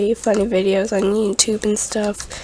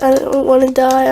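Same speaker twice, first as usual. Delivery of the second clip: scared plea; 3 semitones higher, 4 dB louder than usual. Retold or imitated. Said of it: "she's like".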